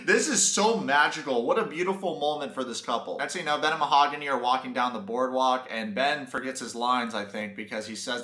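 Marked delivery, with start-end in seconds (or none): 0.0-3.2 raised, put-on awe; mock gushing. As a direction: gush sarcastically over a staged romance. Mock gushing over staged embrace.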